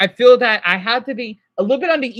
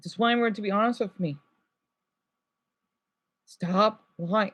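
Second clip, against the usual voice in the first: drained plea; 2 semitones lower, 8 dB quieter than usual. Real, not acted. After sigh, drained plea.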